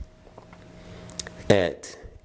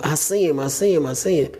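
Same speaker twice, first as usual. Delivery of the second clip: higher-pitched imitation of an alarmed daughter; mildly frantic, raised pitch; retold frantic cry; 6 semitones higher than usual. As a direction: re-enact a child's urgent repeated cry. Acting frightened daughter after scream.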